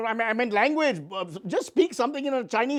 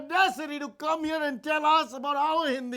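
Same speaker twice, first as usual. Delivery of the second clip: indignant anchor; 7 semitones higher than usual. Acted. Parody anchor scolding guest.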